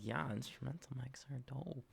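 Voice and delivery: metallic, robotic mic sound. Real, not acted. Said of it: "Even though you sound robotic".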